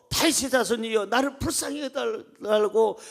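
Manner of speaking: retold crying out. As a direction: imitate a man calling for mercy. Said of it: "크게 소리질러서".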